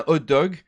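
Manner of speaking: "hot dog" with the H dropped; mock mispronunciation. Shown as a demonstration. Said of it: "which is very different, by the way, than".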